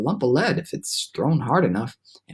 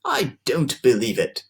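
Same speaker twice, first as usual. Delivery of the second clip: shouted; 3 semitones lower than usual. Acted. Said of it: "shouted the centipede, raising his voice".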